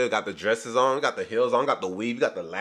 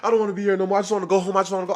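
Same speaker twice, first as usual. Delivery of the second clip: mock tearful plea, higher; imitating crying; 6 semitones higher, much faster than usual. Recapping the show, voicing crying Lisa with mock tears. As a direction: quote her sobbing line in a lightly weepy voice. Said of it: "you see her crying, and she's just like".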